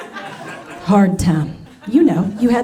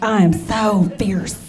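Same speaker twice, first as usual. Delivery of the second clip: slow, lower, sultry diva purr; mock fierce diva; 3 semitones lower, slower than usual. Comic imagining herself fierce in bed, slow diva purr. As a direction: play the fierce vixen she imagines. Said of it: "in my mind, I look just like".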